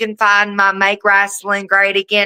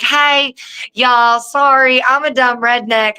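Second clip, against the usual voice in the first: redneck; 3 semitones higher than usual. Retold or imitated. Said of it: "I sound like a dumb redneck".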